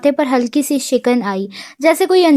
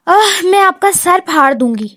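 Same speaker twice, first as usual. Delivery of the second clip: a mild exasperated threat, voice raised high; the girl fed up with her teasing boss, mildly angry; fed-up anger; 5 semitones higher than usual. A narrator's reading. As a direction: snap it out as a half-serious threat, lightly. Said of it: "وہ غصے سے تنگ آ کر بولی".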